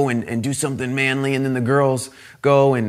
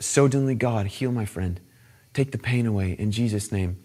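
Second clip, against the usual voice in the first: soft, low imitation of a boy praying; gentle prayer; 6 semitones lower, 6 dB quieter than usual. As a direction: pray it simply and quietly. Acts boy's gentle prayer.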